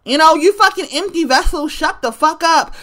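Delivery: emphatic repeat. Real, not acted. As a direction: drive the insult home with full weight. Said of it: "repeats the retort".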